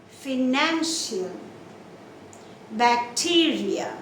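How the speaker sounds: slow Financial, Bacteria, long NAN and TE; stressed inner syllable. Shown as a demonstration. Teacher gives examples, stress on NAN in Financial, TE in Bacteria. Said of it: "stress will be on the second last".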